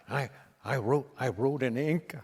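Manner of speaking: a mild, halting Capote attempt; Reagan trying Capote. Reagan practising the Capote punchline while writing it down. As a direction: Reagan repeating the joke in a light Capote voice. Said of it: "He's going".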